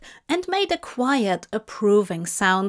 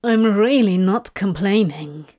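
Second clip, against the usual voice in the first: protesting; 5 dB louder than usual. Acted. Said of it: "Crowley protested".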